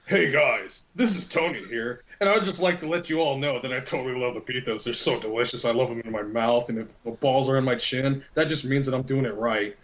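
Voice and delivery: a hint of a cheesy ad read; mock promotion read over the walkie-talkie. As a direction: put on a light promo voice. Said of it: "I used to have promotions saying".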